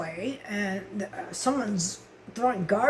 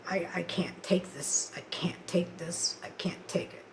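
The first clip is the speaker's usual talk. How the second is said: hushed repetition, fading away; quiet, defeated inner thought; despairing; 3 semitones lower, 4 dB quieter than usual. Retold or imitated. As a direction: say it under the breath, worn down. Retells despairing suicidal thoughts.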